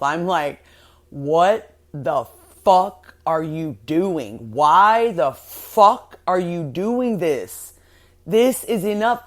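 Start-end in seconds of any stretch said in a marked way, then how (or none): 1.1-9.2 exasperated self-scolding. Retold or imitated. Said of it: "I am literally at war with myself".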